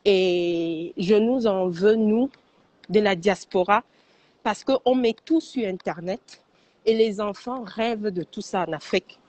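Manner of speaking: muffled by a mask; speaking through a mask in a mall; through a face mask. Real, not acted. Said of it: "je parle avec le masque". (voix derrière un masque)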